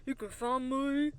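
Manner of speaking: slow, drawn-out country singer impression; a country singer. Host doing her country singer impression after a countdown. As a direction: stretch the words like a country star. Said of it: "my impression of a country singer".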